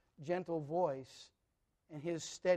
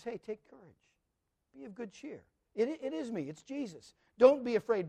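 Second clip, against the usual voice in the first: gentle reassurance; 4 semitones higher than usual. Acted. Jesus calming frightened disciples.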